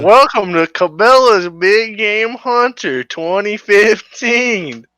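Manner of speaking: loud hyped game intro; game announcer voice. Acted. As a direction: announce it like a cheesy game title.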